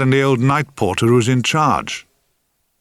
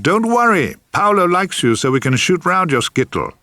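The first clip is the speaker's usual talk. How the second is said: higher, brightly cheerful news; cheery reassurance; 8 semitones higher than usual. A narrator's reading. Assistant returning to the worried actor with good news, cheerful.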